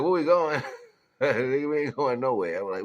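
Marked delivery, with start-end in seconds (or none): 0.0-0.6 loud, high quoted question; mock demand. Acted exchange about the drive. 1.2-2.6 loud, high, drawn-out denial; mock retort. Grandfather answers the child, acted.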